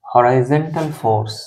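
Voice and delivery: very slow, word-by-word classroom dictation. Shown as a demonstration. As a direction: dictate each phrase slowly with pauses. Teacher dictates the equilibrium conditions.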